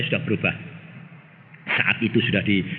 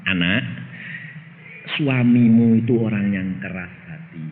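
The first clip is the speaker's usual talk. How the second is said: voice of God; 5 semitones lower than usual. Retold or imitated. God comforts the jealous wife, low and gentle. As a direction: soothe her like a tender father. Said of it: "Tuhan berkata begini".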